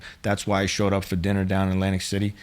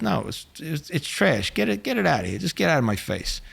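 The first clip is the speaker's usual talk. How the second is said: irritated; 6 semitones higher than usual. Retold or imitated. Mobster waving the waitress off.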